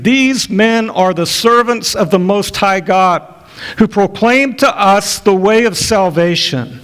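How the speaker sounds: put-on a girl crying out in the street. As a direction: call it out after them, slow and high. Girl crying out after Paul.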